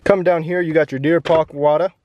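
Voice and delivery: put-on slips into a light New York accent; a passing hint of New York accent; casual New York accent showing off the water bottle. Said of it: "into a New York accent?".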